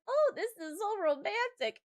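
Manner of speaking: high-pitched mock swoon. Acts out inner thought during kiss.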